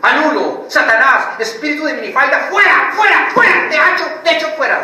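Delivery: high, loud, hammed-up casting out; mock deliverance shout. Mocking a believer who shouts at the miniskirt spirit, loud and high. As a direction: yell at the demon like a frantic exorcist. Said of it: "Se pone a gritar".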